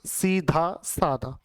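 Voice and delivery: slow teacher's model of सीधा सादा; slow careful demo. Shown as a demonstration. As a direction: say सीधा सादा slowly, sound by sound. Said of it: "इसके स्थान पर दा आएगा".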